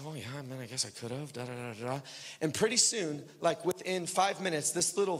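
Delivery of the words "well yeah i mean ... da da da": mumbled reply. Retold or imitated. Retold meek reply to accusing voice.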